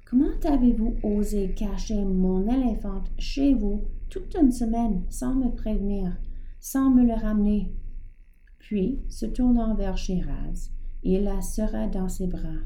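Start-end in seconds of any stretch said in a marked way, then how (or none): 0.1-7.7 reproche indigné, un peu plus fort; le petit dompteur s'emporte contre Georges; colère. Acted. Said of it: "le visage rouge de colère". (ton indigné)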